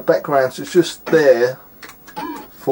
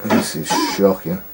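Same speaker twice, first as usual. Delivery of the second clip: half-whispered, unvoiced verdict; whispered disgust. Real, not acted. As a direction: breathe it out in disgust. Muttered verdict on the game.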